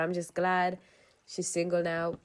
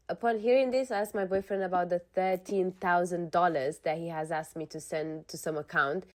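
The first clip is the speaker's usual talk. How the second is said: even-paced reading of a personal post; measured first-person narration; story read-aloud. Acted. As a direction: read it out like someone's confession. Reads a posted story aloud.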